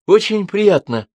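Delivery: high, slow breathed-out greeting. A narrator's reading. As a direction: exhale the words in awe. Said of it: "выдохнула она".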